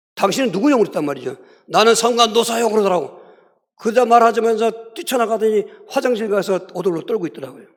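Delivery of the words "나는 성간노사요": put-on elderly old man voice. Retelling a woman's reply when asked who she was, old man's voice. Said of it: "늙은 노인 목소리가 딱 날리는데".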